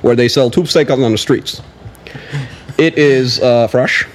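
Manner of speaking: a hint of a statesman with filler pauses; Obama. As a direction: answer like a measured president at a press conference. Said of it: "thought he was sitting right next".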